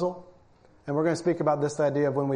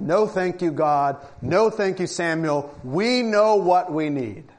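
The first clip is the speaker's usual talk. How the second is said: mock smug refusal; slower than usual. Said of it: "They said".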